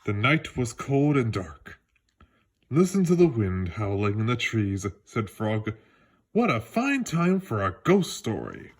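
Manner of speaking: put-on lively read-aloud for children; animated children's book reading; story narration. A narrator's reading. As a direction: tell it like a bedtime story to kids.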